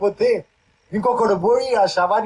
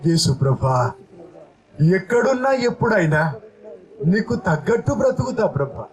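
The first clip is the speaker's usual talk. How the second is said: prayer said aloud; 3 semitones higher than usual. Shown as a demonstration. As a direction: lead the congregation in a fervent spoken prayer. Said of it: "అని బయటికి చెప్పు పలికి". (పలికే ప్రార్థన)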